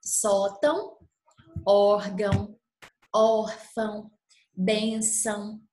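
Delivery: "órgão" stressed open ó, nasal ão; word demo. Shown as a demonstration. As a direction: stress first syllable, nasal ending. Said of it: "como nos casos das palavras".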